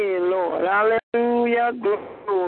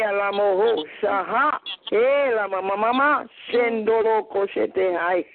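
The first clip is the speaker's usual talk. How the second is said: speaking in tongues. Real, not acted. Prayer in tongues.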